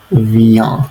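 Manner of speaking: Vient with a nasal ah and a slight rise; nasal vowel demo. Shown as a demonstration. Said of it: "the ah sound is nasalized".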